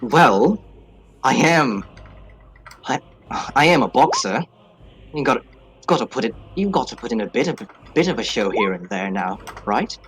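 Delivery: put-on loose Australian accent that keeps slipping. Boxer explaining his showmanship, in wobbly Australian. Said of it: "I know I can do this accent".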